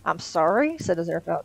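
reading a novel aloud, voicing the characters; lively audiobook read with light character voices; story narration. A narrator's reading. Reads Good Omens aloud.

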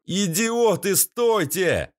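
high shouted warning; desperate shout. A narrator's reading. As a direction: yell at the fools to stop. Warning friends off hatch.

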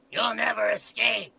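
slow demon shout. Acted. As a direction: yell it as a demon. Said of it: "which character is this? This is Demon Five".

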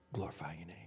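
breathy whisper, almost gone; whispered prayer. Retold or imitated. Jesus whispering his prayer in great distress.

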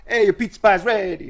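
high, cheery pizza chef voice; jolly Italian pizza chef. Retold or imitated. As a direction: call out the order like a chef. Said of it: "like a pizza chef sliding the pizza".

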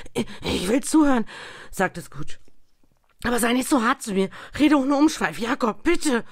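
viel höher, lauter, hastig flehend; ängstlich flehend. A narrator's reading. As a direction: bettle zitternd um Gnade. Scrooge zittert vor Angst. (Scrooge fleht den Geist ängstlich an)

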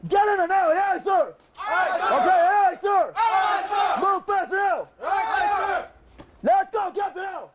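barked commands, shouted; drill instructor yelling. Real, not acted. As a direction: yell orders at recruits.

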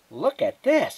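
very high, loud exclamation; excited Tootie. Acted. Tootie shows off the lamp, excited. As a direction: call everyone over in delight.

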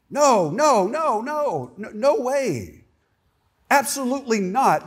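voicing Paul's firm no; emphatic refusal. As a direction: shut the idea down hard. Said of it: "that's, like, incredibly emphatic".

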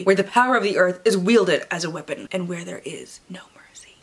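hushed, ominous book-blurb read; dramatic reading. Acted. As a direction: read it like a movie trailer.

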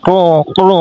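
imitated crow cawing; crow call. Shown as a demonstration. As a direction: caw like a crow, twice. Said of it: "কাকের মতন ডাকো".

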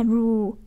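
"ru" held a little longer; drawn-out syllable. Shown as a demonstration. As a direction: stretch the vowel in "ru" slightly. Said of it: "cũng đọc lâu hơn một tí xíu". (kéo dài "ru" một chút)

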